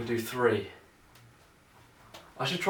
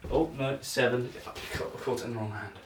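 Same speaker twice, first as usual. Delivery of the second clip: ordinary talk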